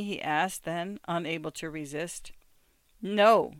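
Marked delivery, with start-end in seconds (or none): 3.0-3.5 proud. A narrator's reading. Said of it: "she said with some pride".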